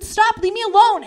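high, insistent protest; retold plea. Telling him to back off, high-pitched protest.

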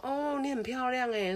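high, slow sweet compliment; mock compliment. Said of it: "不会让对方就说". (高音、慢慢地夸人漂亮)

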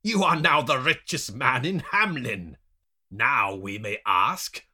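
loud mock announcement; taunting. A narrator's reading. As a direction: taunt him in a big, put-on voice. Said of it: "taunting me with a pouch of gold coins".

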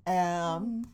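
slow, drawn-out mock newscaster. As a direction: draw each word out like a news anchor. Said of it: "now you just sound like a sloth".

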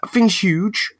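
hushed, breathy aside about the spider; whisper. Real, not acted. Friend eyeing a huge tarantula, whispering. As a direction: breathe it out like you're scared it hears.

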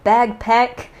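'bagpack' with a g in place of k; g pronunciation. Shown as a demonstration. Speed round of variants, g in 'bagpack'. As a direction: say bag, then pack, in 'bagpack'. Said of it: "whoever fucking says bagpack".

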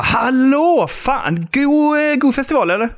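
lightly voiced awkward approach; mock pushy stranger. Imagined friend approaching.

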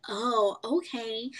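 slow, drawn-out imitation; imitated halting talk. Coworker answering the New Yorker, slowly and haltingly. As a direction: mimic her taking her time. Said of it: "This is just how she talks".

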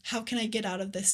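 "How can I get out of this" rattled off fast; quick old mindset. Shown as a demonstration. Speaker voicing the mindset to drop, quick. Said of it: "change our mindset from".

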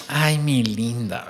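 slow, sweet and doting; tender to girlfriend. Retold or imitated. Boyfriend cooing at his girlfriend, slow and sweet. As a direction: melt a little over your sweetheart.

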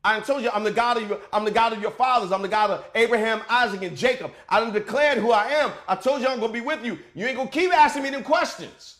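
a touch of sassy, quick impatience; mildly scolding, like you done told them already; God's flex. Retold or imitated. God losing patience with Moses, a hint of sass. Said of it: "I can hear the flex in God's tone".

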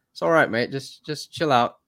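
lightly put-on Aussie accent, slowing; a laid-back Australian accent, done badly. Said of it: "My, my worst Australian accent".

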